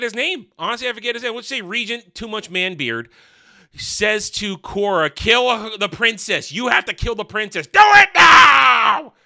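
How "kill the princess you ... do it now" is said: put-on awkward Scottish accent. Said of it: "says it in a really awkward way with his Scottish accent".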